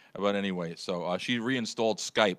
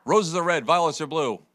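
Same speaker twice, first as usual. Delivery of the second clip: poem recital; 4 semitones higher, 5 dB louder than usual. Shown as a demonstration. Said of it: "I'm gonna say the first part of the poem".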